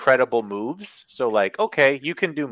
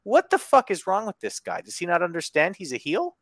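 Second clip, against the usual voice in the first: retold disbelief; 5 semitones higher than usual. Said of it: "I was just like".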